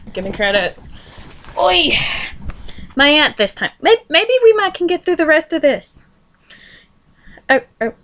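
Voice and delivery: plain reading voice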